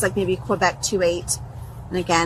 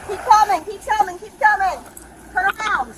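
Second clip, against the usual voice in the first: shouted police commands; 11 semitones higher than usual. Real, not acted. Officer directing suspect out.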